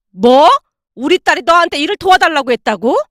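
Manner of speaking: a sharp loud "뭐?" then disbelief; can't believe what she hears; incredulous. Acted. Mother-in-law doubting daughter-in-law, incredulous.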